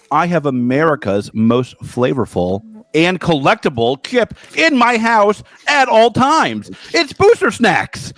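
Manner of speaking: slow, drawn-out sponsor pitch; ad read. Acted. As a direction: sell it like a TV commercial.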